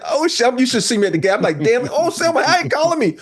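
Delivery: high, thrilled mock reaction; excited disbelief. Storyteller to himself, high excited disbelief. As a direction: pitch up, starstruck.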